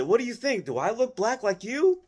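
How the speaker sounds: high put-on woman's voice, asking innocently; mock lady voice. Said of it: "The Puerto Rican woman gonna look at me and say".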